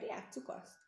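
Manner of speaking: soft, breathy hushed agreement; old man agreeing. Acted. Old man agrees with the boy, hushed and soft. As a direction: let the old man agree gently under his breath. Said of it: "helyeselt az öreg néger".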